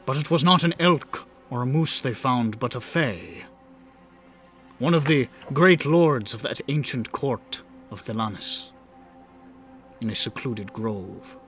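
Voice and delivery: measured dramatic story narration; grand rhythmic bard. Acted. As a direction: tell it like a bard at the fire. Bard narrates the fae tale.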